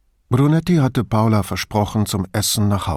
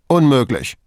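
a curt, louder gruff refusal; 4 semitones higher, 5 dB louder than usual. Acted. Borgato rejects the official's claim, gruff. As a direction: bark it off roughly. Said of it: "sagte er grob".

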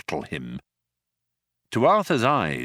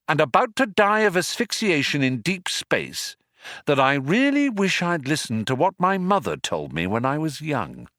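a touch higher, measured lament; lightly voiced rueful Arthur; 5 semitones higher than usual. Doomed man muses to his companion in the airlock, mildly rueful. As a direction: lightly play a man regretting his life choices.

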